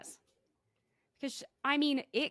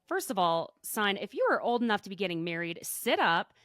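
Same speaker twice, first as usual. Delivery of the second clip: stern parent. Acted. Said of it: "I'm not normally like that".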